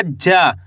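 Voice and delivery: जा with its vowel held long; drawn-out vowel. Shown as a demonstration. Teacher sounds out the first letter of जाली, drawn-out जा. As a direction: stretch the long aa in जा. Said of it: "जा का उच्चारण खींच के निकल रहा है".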